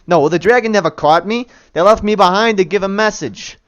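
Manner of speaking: a lightly voiced New York bandit, cocky; statue bandit, New York. Statue bandit telling the party, New York accent.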